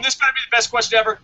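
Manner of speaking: fast, high hype call; hyped announcer. Acted. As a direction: fire it off like a ring announcer. Catchphrase setup for question.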